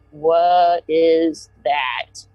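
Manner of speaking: drawn-out, hushed wonder; slow awed question. Retold or imitated. Looking up at the lights, slow stunned wonder. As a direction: stretch it out, staring up in disbelief.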